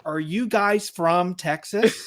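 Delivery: slow, attempted New York accent. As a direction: have a careful go at sounding like a New Yorker. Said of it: "That's actually a perfect New York accent".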